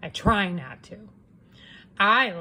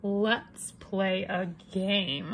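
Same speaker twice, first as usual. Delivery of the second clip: very slow, coaxing; sly slow; 4 dB quieter, much slower than usual. Acted. Wolf luring Red into a game, slow and sly. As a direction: lure her in gently. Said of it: "I said".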